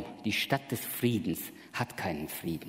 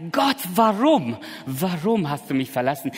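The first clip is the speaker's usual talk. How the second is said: loud, slowed cry of warum; 5 semitones higher, 4 dB louder than usual. Retold or imitated. Preacher voicing Jesus' cry, loud lament. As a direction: wail it up to God. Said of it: "nicht anders schreien konnte als".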